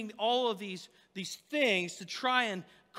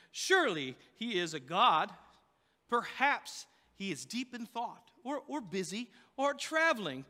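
lightly mocking, with lifted pitch in places; mock taunting; 2 semitones higher than usual. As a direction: play the smart aleck needling rivals. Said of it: "began to taunt them".

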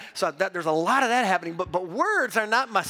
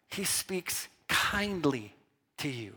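slower, softer, drawing out kindly; slow tender repeat; 5 semitones lower, 6 dB quieter, slower than usual. Shown as a demonstration. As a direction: savour the word kindly gently.

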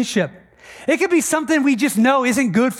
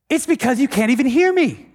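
acted exasperated rebuke, slightly raised; pointed, emphatic accusation in mild exasperation; frustrated Jesus; 3 semitones higher than usual. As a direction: scold with mounting frustration. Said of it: "Like, he is frustrated".

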